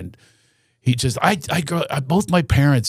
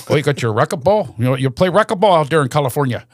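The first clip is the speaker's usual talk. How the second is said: imitated Shamokin, Pennsylvania local; lightly put-on Pennsylvania accent; faster than usual. Tour guide chats racquetball with a visiting comedian, Shamokin Pennsylvania accent. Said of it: "with that Shamokin, Pennsylvania accent".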